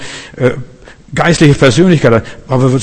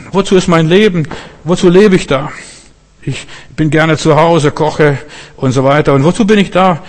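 higher-pitched, questioning voice of a troubled youth; plaintive young Josef; 4 semitones higher than usual. Retold or imitated. Young Josef asks God why he was born, plaintive. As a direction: imitate a boy asking God what he is for.

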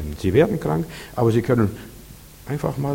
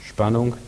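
SPANNUNG with a slight upward lift; tension. Shown as a demonstration. Preacher repeats tension for the congregation, SPANNUNG gently rising. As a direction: leave SPANNUNG hanging on a rise. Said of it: "Merkt ihr das?".

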